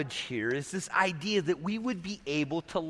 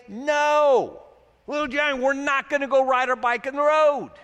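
higher and louder, a firm parental no; firm loving no; 5 semitones higher, 5 dB louder than usual. Pretend. Preacher voicing a wise parent, firm and loud. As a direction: stop the child kindly but firmly. Will you love them well when you say.

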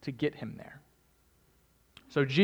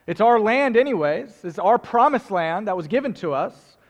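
rising indignation; 4 semitones higher, 6 dB louder than usual. Real, not acted.

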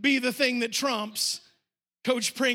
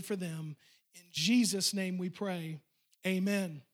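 earnest pastor's prayer, settling lower and softer; hushed close to a spoken prayer; 3 semitones lower, 4 dB quieter than usual. Real, not acted. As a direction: pray aloud, easing down to a quiet amen.

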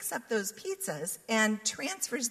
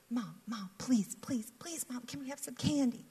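put-on begging child; 4 semitones higher than usual. Children begging mom for candy.

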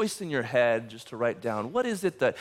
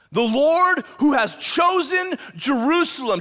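louder, higher proclamation; proclaiming rebuke; 11 semitones higher, 5 dB louder than usual. Acted. Angel of the Lord rebuking Satan, loud proclamation. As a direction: declare it over Satan. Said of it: "Oh, Satan".

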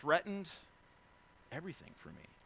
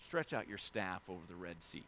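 voice of God; 8 semitones lower, 7 dB quieter than usual. Retold or imitated. God's instruction in retold story.

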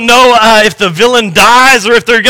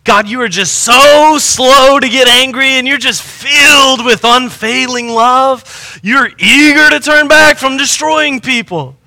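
a bitter prophet scolding God; Jonah's bitter prayer; 3 semitones higher than usual. Retold or imitated. Preacher voicing Jonah's angry prayer.

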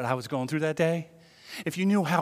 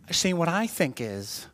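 put-on whiny objector voice; mock whiny voice; 2 semitones higher than usual. Preacher mocking a churchgoer who objects, put-on whiny voice. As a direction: play the smug objector, badly. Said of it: "that's such a terrible voice".

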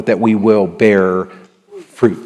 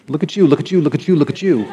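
mock praise; 4 semitones higher, faster than usual. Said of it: "And I was like".

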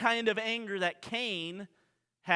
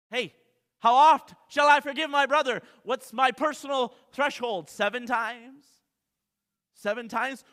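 a lightly voiced Peter, raised and questioning; Peter asking; 5 semitones higher, 8 dB louder than usual. Pastor voicing Peter's question to Jesus, mildly raised. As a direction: ask it like an eager disciple.

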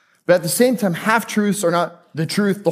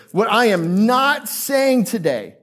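slow, deliberate stress on "not"; slow, emphatic "not" for absolute clarity; loud and clear; 3 semitones higher, slower than usual. Real, not acted. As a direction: spell out the disclaimer, leaning on "not". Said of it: "loud and clear".

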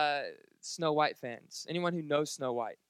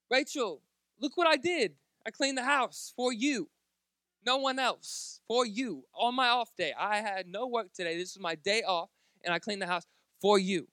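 proud excited plea; 5 semitones higher, 3 dB louder than usual. Retold or imitated. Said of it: "And I'm like".

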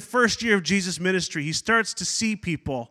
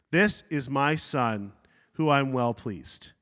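solemn voice of God; 5 semitones lower, 4 dB quieter, slower than usual. Acted. Voice of God quoted, slow.

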